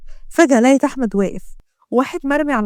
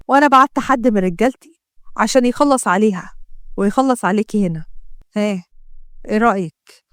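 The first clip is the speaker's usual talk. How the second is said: suspicious gangster; 2 semitones lower than usual. Acted. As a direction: taunt her with what she saw. Ahmed threatens mother's murder.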